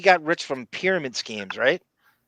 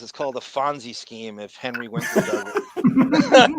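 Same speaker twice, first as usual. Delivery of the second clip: reading through a laugh; 3 semitones lower, 5 dB louder than usual. Real, not acted. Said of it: "the speaker goes".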